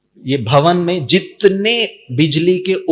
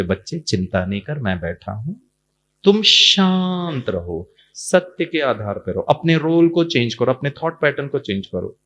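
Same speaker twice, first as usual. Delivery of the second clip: reassuring God. Retold or imitated. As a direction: soothe and advise gently.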